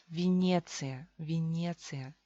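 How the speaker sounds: Venecia as vi-NYE-tsi-ya; Russian Venecia, first vowel reduced to i; Russian pronunciation. Shown as a demonstration. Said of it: "se pronuncia como I".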